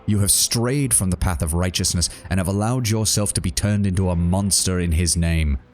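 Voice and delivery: a lightly voiced zealot preaching repentance; Savani's rebuke. Savani accuses Korda.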